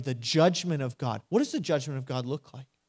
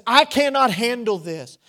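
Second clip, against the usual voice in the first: acted overwhelm; 7 semitones higher, 7 dB louder than usual. Acted overwhelm after broken relationship.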